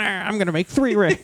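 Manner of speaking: high dismissive meh; mock petty Celebrimbor. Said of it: "the other guy's like".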